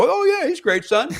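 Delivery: high, laughing mock praise; forced cheerful dad praise; fake enthusiasm. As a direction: pretend to love a bad comic. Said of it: "me having to go".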